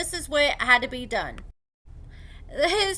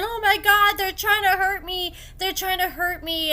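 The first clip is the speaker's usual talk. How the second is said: raised, higher-pitched mock cry for help; retold panicked scream; 5 semitones higher than usual. Curtis fleeing out the door from the roommates, mock screaming. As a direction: imitate someone crying out in alarm, not full screaming. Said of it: "running out the door screaming".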